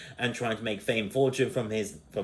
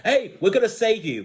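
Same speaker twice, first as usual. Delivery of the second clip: imitated call; 9 semitones higher, 5 dB louder than usual. Voicing characters calling out.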